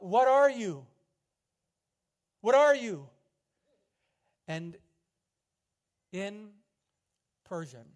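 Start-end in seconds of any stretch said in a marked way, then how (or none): 0.0-3.1 loud, high awestruck cry; a guilt-struck prisoner calls out to the presence. Retold or imitated. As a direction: shout it out, overwhelmed with awe. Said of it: "he cried out".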